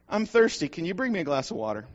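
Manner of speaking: put-on small boy begging his mother for water; child's plea.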